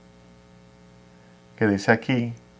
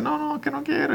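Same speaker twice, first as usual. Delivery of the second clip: mock coy refusal; 14 semitones higher, 7 dB quieter than usual. Retold girlfriend refusing bath.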